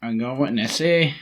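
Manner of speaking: put-on a light Scottish accent, slow. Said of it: "It's my Scottish accent".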